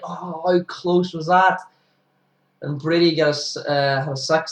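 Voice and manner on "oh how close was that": frustrated bowler. Retold or imitated. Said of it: "he's like".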